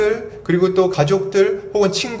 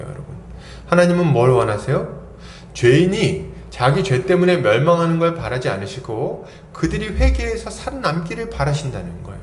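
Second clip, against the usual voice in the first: ordinary talk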